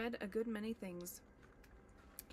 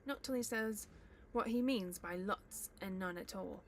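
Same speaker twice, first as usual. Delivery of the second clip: troll voice. Acted. Bert refuses.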